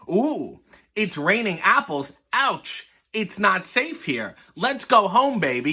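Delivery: lightly voiced flustered mother; a hint of a prim lady yelping ouch; mock alarmed lady. Reads Missus Doodlepunk's alarmed lines.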